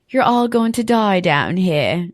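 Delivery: slow, ominous read of the villain line; slow menacing quote. Acted. The speaker quotes the gore lover in a slow menacing voice. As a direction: creep it out slowly, half-committed. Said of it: "that's not how she says it".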